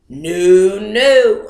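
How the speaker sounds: insistent loud refusal; firm loud no. Retold or imitated. To doctors telling her to go home, a loud firm no. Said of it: "I said".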